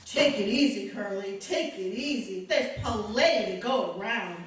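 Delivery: low, teasing femme fatale voice; Lauren Bacall. Acted. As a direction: vamp it up like a film siren. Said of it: "now she wants to be Lauren Bacall".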